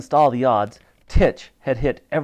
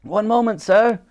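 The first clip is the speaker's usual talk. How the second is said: higher-pitched harried private; flustered soldier; 9 semitones higher than usual. A narrator's reading. Titch asks the Admiral to wait, flustered and high. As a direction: answer your officer in a raised voice.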